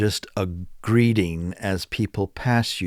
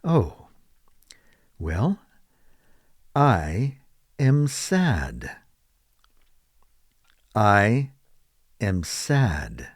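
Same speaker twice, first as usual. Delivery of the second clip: mock sad; much slower than usual. Shown as a demonstration. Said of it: "You might say".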